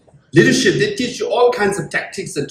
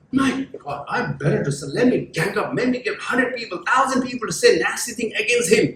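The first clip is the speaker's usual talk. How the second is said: exasperated enemy; 4 semitones higher, 3 dB quieter than usual. Acted. Acting out the frustrated enemy.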